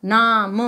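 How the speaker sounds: नाम with the आ held, then a separate म; long vowel sound. Shown as a demonstration. Teacher repeating the long sound, नाम drawn out. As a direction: hold the ना in नाम. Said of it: "long sound आ रहा है".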